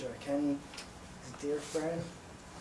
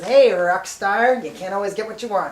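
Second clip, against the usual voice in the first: teasing call; 4 semitones higher, 11 dB louder than usual. Retold or imitated. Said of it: "looks at me ... and says".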